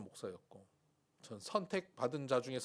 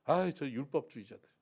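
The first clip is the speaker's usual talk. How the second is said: mock contempt; 6 dB louder than usual. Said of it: "이렇게 비난할까요".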